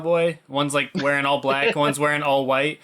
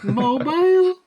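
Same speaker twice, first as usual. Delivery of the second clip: mock puzzled; 9 semitones higher than usual. Friend mocking a movie line, high puzzled squeak. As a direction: repeat it as a baffled joke.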